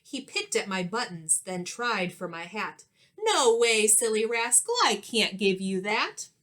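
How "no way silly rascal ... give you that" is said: loud, playful scolding. Acted. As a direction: tell the rascal off. Scolding a cheeky monkey.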